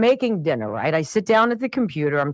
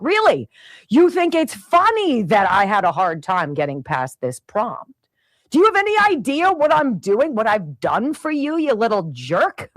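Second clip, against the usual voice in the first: retold anger. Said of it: "I'm so angry".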